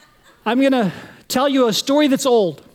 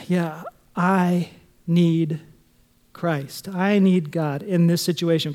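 sincere confession; 4 semitones lower, slower than usual. Acted. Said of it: "we can go".

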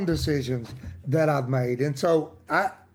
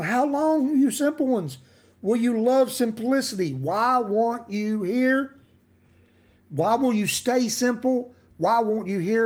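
high-pitched appeal to the simple; crying out; 5 semitones higher than usual. Acted. Wisdom calling to the simple ones, crying out. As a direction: call out an exasperated plea, pitched up. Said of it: "cries out to the simple".

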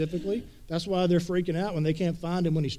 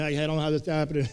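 mild panic; much faster than usual. Retold or imitated. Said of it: "he's freaking out a little bit".

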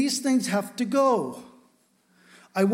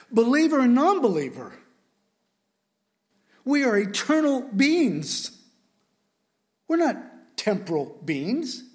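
emotional; 2 semitones higher, 4 dB louder than usual. Real, not acted. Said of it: "I'm sorry for getting emotional".

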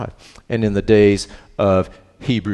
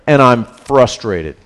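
mock frustrated; 5 dB louder, slower than usual. End of the acted complaint.

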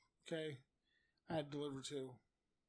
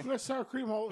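loud, higher outburst; loud complaint; 7 semitones higher, 5 dB louder than usual. Retold or imitated. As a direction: start yelling the complaint. First take of the yell.

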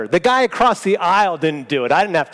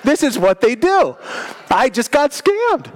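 higher, indignant muttering; suspicious thought; 5 semitones higher than usual. Retold or imitated. Preacher hamming up his suspicion of the couple. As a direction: grumble it as a conspiracy. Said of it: "I had this thought".

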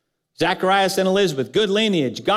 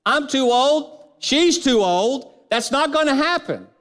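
put-on doubting old man; 6 semitones higher than usual. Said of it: "paraphrase what Zechariah said is".

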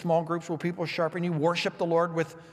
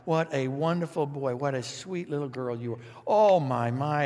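doting relative. Retold or imitated. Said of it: "God just pats us on the head".

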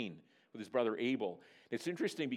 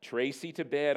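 firm parental order, louder at the end; mild command; 4 dB louder than usual. Acted. Father commanding his daughter to bed, firm. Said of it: "I commanded".

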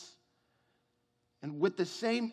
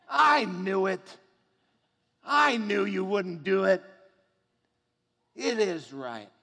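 Jonah insisting, rising to a loud angry outburst; 5 dB louder than usual. Acted. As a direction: play Jonah digging in, furious at God. Preacher voices angry Jonah.

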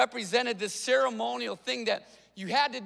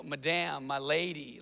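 honorable address; 6 semitones lower, 4 dB quieter than usual. Retold or imitated. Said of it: "in a very honorable way".

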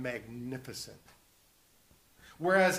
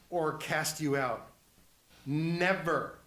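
firm, final "Never" set apart; emphatic; slower than usual. Acted. Preacher voicing Christ's promise to listeners, emphatic. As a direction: land "Never" as the last word. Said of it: "He just could not be more emphatic".

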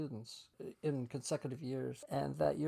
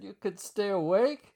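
higher, loud mocking question; teasing yell; 6 semitones higher, 8 dB louder than usual. Draftsman teasing the boss about the boring tour, loud. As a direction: throw the jab back across the room. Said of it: "We were yelling this back and forth".

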